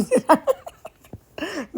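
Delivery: high burst of amused laughter; laughing. Real, not acted. Vlogger laughs about where she put the camera, high amused laugh. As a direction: laugh it off at yourself.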